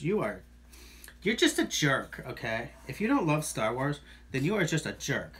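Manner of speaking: exaggerated millennial voice; over-the-top millennial whine. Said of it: "I had to say that in my most millennial voice possible".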